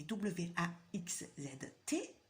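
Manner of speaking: letters spelled one by one, slowly. Shown as a demonstration. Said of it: "T'entends bien?".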